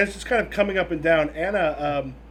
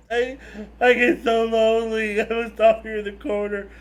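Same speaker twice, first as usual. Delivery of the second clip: slow, louder hammed-up wail; whiny crying voice; 3 semitones higher, 6 dB louder than usual. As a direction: whimper like a lonely machine. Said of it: "sobbing coming from it".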